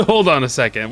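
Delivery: laughing. Real, not acted. Gamer laughing at a strange game painter, real laugh.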